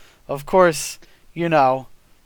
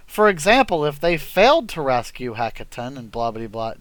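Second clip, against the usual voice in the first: mocking read; 3 semitones lower, faster than usual. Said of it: "I'm reading the book, and it's like".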